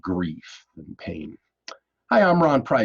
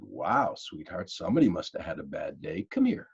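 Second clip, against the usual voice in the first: tender and soothing; 5 semitones lower than usual. Retold or imitated. Husband gently soothing his wife after her bad day, tender. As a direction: ease her out of her bad mood.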